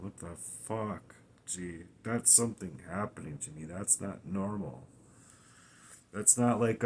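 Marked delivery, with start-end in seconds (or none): 0.0-4.9 hushed alarmed mutter. Retold or imitated. Retelling a frightening heart episode.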